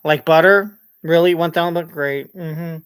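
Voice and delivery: sarcastic wife. Retold or imitated. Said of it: "and she goes".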